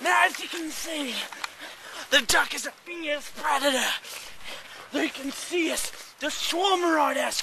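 hushed then urgent nature host; mock survival show host. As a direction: play a hammy survival expert. Parody nature documentary host.

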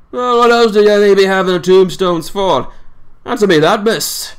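lightly voiced old seaman in thick dialect, scornful; a hint of a crusty old fisherman railing against lies; old Yorkshire sailor. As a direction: grumble it like a cantankerous old salt holding court. Swales challenges Mina.

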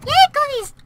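mock delight. Praised with a cookie joke.

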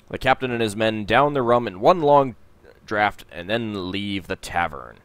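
storybook narration of the tavern scene; game text narration. A narrator's reading. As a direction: read the screen text like a storyteller. Reads the game's narration.

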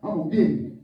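low, soft mock threat; play-threaten under your breath; understated father's threat. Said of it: "I'm like".

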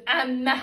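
emme said with a long doubled m, æmːæ; drawn-out Kütahya-style emme, loud; dialect emme. Retold or imitated. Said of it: "Biz de Kütahyalıyız, öyle konuşmuyoruz".

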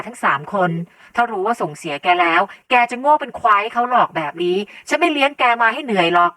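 loud, hurt, tearful outburst; trembling voice. A narrator's reading. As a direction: berate your son through wounded tears. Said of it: "แล้วพูดขึ้นเสียงสั่นเครือว่า". (เสียงสั่นเครือ)

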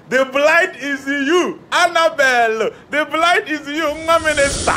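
loud, high proclamation with stretched words; excited revelation. Retold or imitated. Suitor revealing the bride in his dream to the minister, excited. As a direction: proclaim it like a joyous prophecy.

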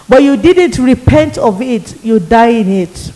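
a hint of a grim demon reading out her sins. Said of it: "the demon said to me".

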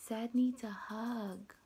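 unvoiced hush, tender; soft comforting whisper. Shown as a demonstration. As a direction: whisper like giving a hug. Whispering about hugging sad.

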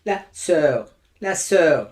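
"sœur" with O and E fused into one vowel; joined O-E vowel. Shown as a demonstration. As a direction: blend o and e in "sœur". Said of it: "o ile E böyle bitişik gibi olur". ("sœur" sözcüğünde o ile e bitişik)

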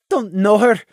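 grudging muttered aside; sullen mutter. A narrator's reading. Lily interrupting Saffron, sullen mutter. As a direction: mutter it under protest. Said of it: "Lily muttered".

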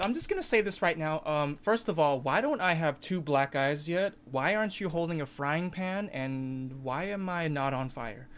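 high and loud, half-laughing disbelief; incredulous rant. Retold or imitated. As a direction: rattle off the questions like it's a prank.

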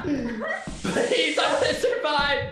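mock panicked shouts; panicked yelling. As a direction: wail in hammed-up panic. Panicked Luigi stuck in web.

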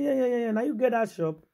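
high, bright eager yeah-yeahs; high-pitched businessman quickly rattling off the news. Retold or imitated. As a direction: play the excited big man who recognises him. Voicing the businessman again.

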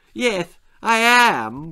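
put-on high, slow, wailing little girl; bawling. A narrator's reading. Little Lizzie admitting she's scared, bawling. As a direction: howl it out tearfully. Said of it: "bawled Lizzie".

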